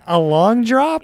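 high, slow, disgusted repeat; disgusted disbelief. Real, not acted. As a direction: recoil at the phrase in disgust.

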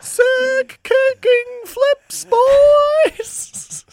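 very high, slow, stretched surfer voice; surfer dude voice. Retold or imitated. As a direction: squeal it like a cartoon surfer bro. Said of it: "sounds like a cartoon surfer guy".

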